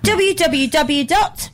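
each letter drawn out slowly; slow spelled-out URL. Shown as a demonstration. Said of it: "World Wide Web".

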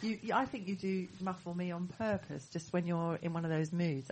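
muffled, as if through a wall; dull, far-off muffled sound. Real, not acted. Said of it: "I'm very muffled".

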